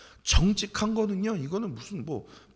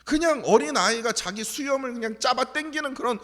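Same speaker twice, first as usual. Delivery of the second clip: much higher and louder, driving sermon; fiery preaching; 8 semitones higher, 9 dB louder than usual. Acted. Pastor rousing the congregation, fiery preaching. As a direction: preach it with full fire.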